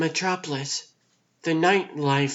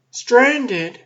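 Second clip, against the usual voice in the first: incredulous echo; 5 semitones higher, 6 dB louder than usual. Acted. Mocking echo of sister's word.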